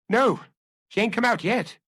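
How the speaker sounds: lightly voiced grudging servant; a hint of sulky woman; sullen. A narrator's reading. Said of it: "in her sullen way".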